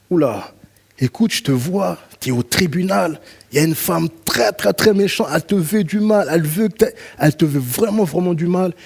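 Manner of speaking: high, intense prophet's warning; urgent vision voice; a mild mock prophet seeing danger; prophetic alarm.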